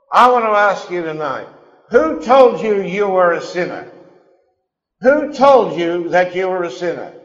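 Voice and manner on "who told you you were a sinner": usual speaking voice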